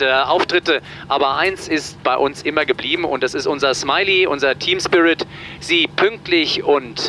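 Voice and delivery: captain's cabin announcement over the PA; pilot cockpit headset. Real, not acted. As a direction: speak through the cockpit intercom. (Durchsage des Kapitäns über die Bordsprechanlage)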